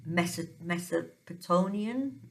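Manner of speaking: "Mesopotamian" attempted haltingly, restarting after "Meso-"; unsure pronunciation. Real, not acted. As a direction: stumble into "Mesopotamian", unsure how it goes. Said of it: "probably not saying that correctly".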